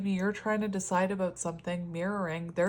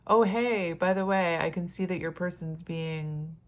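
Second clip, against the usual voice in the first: mock breezy tone. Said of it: "I wouldn't just be like".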